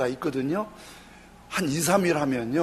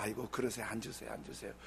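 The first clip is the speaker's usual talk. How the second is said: much softer, lower, almost whispered; meek calming; 7 semitones lower, 17 dB quieter, faster than usual. Retold or imitated. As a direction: soothe him gently, don't fight back. Pastor calmly placates angry man.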